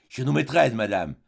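chez nos maîtresses repeated with a light theatrical lift; a touch of stage melodrama on chez nos maîtresses; melodramatic. Acted. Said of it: "d'un ton mélodramatique".

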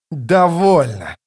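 growled shout. Acted. Draconus silences the king's chatter, angry growled shout. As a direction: cut him off with a growl. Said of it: "прорычал Драконус".

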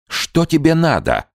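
high, begging question; pleading. A narrator's reading. Trader Gao pleads with Chumbok, high and begging. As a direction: beg him to say what he wants. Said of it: "умоляюще спросил Гао у Чумбоки".

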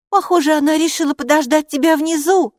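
high, loud teasing remark; scoffing. A narrator's reading. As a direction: needle her with a smirk. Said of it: "усмехнулась Хилла".

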